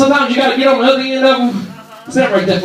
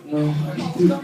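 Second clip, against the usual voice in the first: whining refusal; 10 semitones lower, 8 dB quieter than usual. Retold or imitated. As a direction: sulk like a child who won't try. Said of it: "they still talking about".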